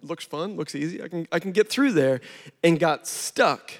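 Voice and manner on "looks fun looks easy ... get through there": whispered, much softer, playful; hushed mischievous child thinking; toddler's inner voice. Retold or imitated. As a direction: whisper it like a sneaky kid's thought. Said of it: "he's probably like".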